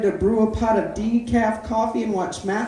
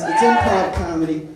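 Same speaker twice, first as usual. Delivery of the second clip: proud shout; 5 semitones lower than usual. Real, not acted.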